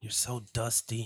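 low whisper. Recounting what she whispered to him going to bed, retelling her whisper. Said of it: "she whispers".

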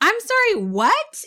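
play-acted, baffled, pitched way up. Recounting a man yelling at them in a parking lot, retelling her own puzzled reply. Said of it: "So I like turn around and I'm like".

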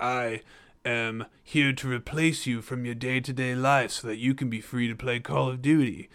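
sinister put-on gangster voice. Retelling a video game commercial: Peter Stormare impression. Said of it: "mafioso, creepy stereotype that he does".

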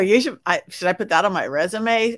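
normal talking voice

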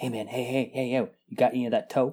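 furtive, shifty street-corner voice. Acting out a shifty-eyed junkie asking a dealer in a dark corner: furtive junkie asking dealer. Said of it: "all shifty-eyed and watching".

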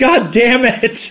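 put-on shrill, very high-pitched screaming. Retelling the show's final scene, imitating Saitama screaming. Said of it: "He literally screams".

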